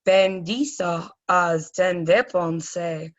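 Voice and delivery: slow, deliberate recital. Shown as a demonstration. Teacher reciting a memory trick to students. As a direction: say each word slowly and clearly. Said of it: "if you say the commands in this order".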